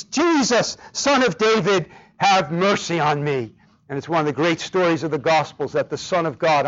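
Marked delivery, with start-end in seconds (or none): 0.1-3.5 crying out. Acted. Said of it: "he begins to cry out".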